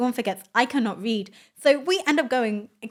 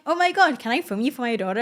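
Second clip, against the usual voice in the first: mock excitement, pitched up at the start; imitated gushing driver; 3 semitones higher, 5 dB louder than usual. Driver asking passengers to be filmed, mock gushing. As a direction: imitate an excited fan's parent.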